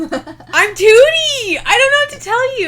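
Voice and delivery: high, loud, drawn-out goofy voice; a hammed-up cartoon announcing its name; silly mock character. Jokes about her own fart.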